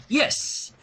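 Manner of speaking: slow, pointed yes; deliberate. A narrator's reading. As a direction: lean on it with a wink. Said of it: "she said deliberately".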